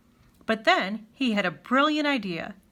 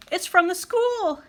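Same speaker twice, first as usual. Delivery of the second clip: high, loud, slow panicked shriek; a fleeing woman shrieks at the bear, terrified; 10 semitones higher, 4 dB louder than usual. A narrator's reading. Woman rushing by shrieks her answer, high and frightened. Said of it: "she shrieked".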